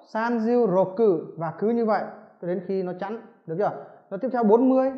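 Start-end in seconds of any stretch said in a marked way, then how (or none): 0.1-1.4 teacher modelling numbers slowly; slow drill. Shown as a demonstration. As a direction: drag each number out for students to copy. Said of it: "Ba mươi sáu".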